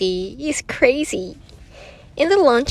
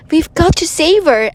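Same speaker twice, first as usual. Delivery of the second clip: high and louder, rushing to rescue; urgent cry; 11 semitones higher, 7 dB louder than usual. A narrator's reading. Emily urging friends to save teacher, urgent. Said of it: "said Emily".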